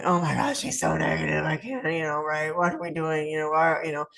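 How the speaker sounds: gossiping behind her back. Shown as a demonstration. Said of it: "now you're going".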